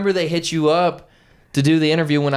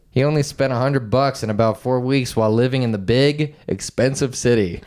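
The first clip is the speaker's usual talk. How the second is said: steady news-copy reading; measured reading from a printed article; article read-aloud; 3 semitones lower than usual. Real, not acted. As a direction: read the story out evenly.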